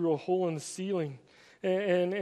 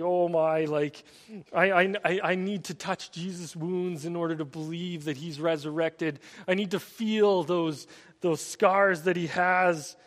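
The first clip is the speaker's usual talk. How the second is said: a touch of worked-up Thomas, louder on the last lines; 4 dB louder than usual. Retold or imitated. Thomas demanding proof from the disciples, mildly worked up. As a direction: half-playfully voice a doubting, agitated Thomas. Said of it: "he's all kind of worked up".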